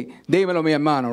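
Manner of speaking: lively Dominican Spanish greeting; Dominican accent. Retold or imitated. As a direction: greet a buddy with Dominican flavour. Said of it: "That's the Dominican accent".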